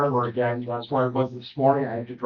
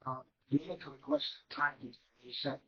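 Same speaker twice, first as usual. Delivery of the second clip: too quiet; 10 dB quieter than usual. Real, not acted. Addressing the judge in court, too quiet to hear. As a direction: speak softly, barely reaching the listener. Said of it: "I can't hear you".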